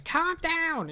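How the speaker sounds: high, loud mock scream; acted-out frantic shout; retold yell. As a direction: yell it in imitation of a panicked character. Retelling an annoying character's yelling.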